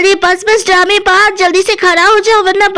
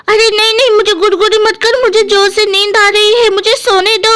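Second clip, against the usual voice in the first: a hint of a complaining sleepy sister; lightly voiced Pakodi; 2 semitones higher than usual. Pakodi tells Guddu to let her sleep, mildly annoyed. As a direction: lightly fend off a pestering brother.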